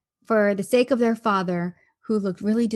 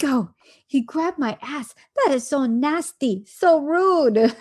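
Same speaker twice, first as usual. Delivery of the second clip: mock disgust; 4 semitones higher, slower than usual. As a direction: play the offended wife, hamming up the outrage. Wife's disgusted reaction, imitated.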